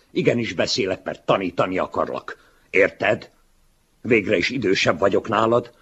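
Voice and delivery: loud, high, mocking lecture to his younger self; condescending older man. Older writer mocking his younger self, loud and patronizing. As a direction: talk down to the boy, loudly.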